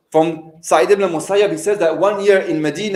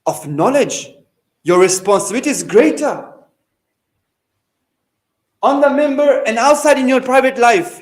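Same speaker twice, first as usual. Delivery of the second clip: stern retold admonishment, measured phrases with weighty pauses; condemning; 2 semitones higher than usual. Imam condemns a scholar who hides the truth, stern. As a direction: reproach a scholar, swelling midway, then easing off. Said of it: "condemning his action".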